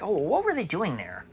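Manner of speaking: sarcastic mock question. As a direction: play dumb to mock them.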